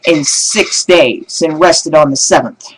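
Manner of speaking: slow preaching cadence; lightly voiced preacher. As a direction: draw it out from the pulpit. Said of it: "as the preacher says".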